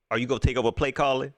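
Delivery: fast, laughing mock question; hammed-up reporter voice. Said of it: "Where you get that from?".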